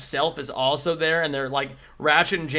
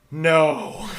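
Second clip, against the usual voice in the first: Clank robot voice. Retold or imitated. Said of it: "flies into the air and goes".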